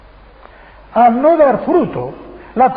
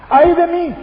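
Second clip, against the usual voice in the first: lament of self; 7 semitones higher, 3 dB louder than usual. Retold or imitated. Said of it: "hace así".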